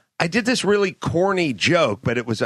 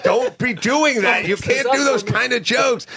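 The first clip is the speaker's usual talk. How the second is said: mock stern scolding; 8 semitones higher than usual. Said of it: "He's like".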